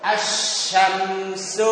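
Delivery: "อัช ชัม ซู" broken up, lam merged into a doubled sh; silent lam. Shown as a demonstration. Teacher showing students a sun letter, lam silent. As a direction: say "อัช ชัม ซู" piece by piece, no l sound. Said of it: "ไม่ออก".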